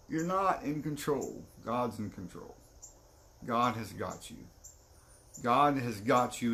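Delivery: slow, measured reassurance; acted calm, deliberate counsel; firm reassurance. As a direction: settle down and reassure him. Friend reassures after the outburst.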